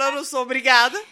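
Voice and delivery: loud defiant self-indulgence; defiant outburst. Retold or imitated. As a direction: declare it proudly, loud. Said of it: "Eu falo".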